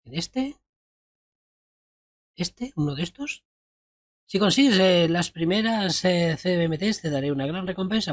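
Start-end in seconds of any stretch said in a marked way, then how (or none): 4.2-8.1 grand quest giver. Acted. Reading out a quest giver's lines.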